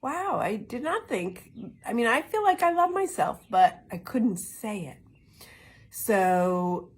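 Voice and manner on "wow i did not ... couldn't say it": stunned realisation. Retold or imitated. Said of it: "And I'm like".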